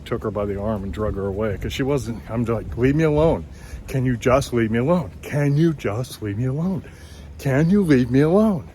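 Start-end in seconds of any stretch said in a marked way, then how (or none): 2.8-8.7 rising retold refusal. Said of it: "kept getting louder and louder".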